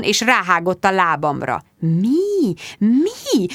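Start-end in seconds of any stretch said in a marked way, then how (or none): 1.8-3.5 stammered. A narrator's reading.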